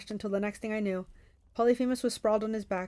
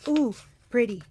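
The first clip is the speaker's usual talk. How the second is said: put-on childlike delight; 2 semitones higher, 5 dB louder than usual. Tyson admiring the golden fleece, childlike delight. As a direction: marvel like a child.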